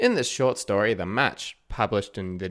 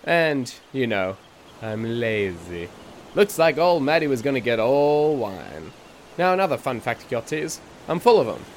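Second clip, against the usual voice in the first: eccentric storyteller character; 2 semitones higher than usual. Acted. Podcast host voices eccentric narrator.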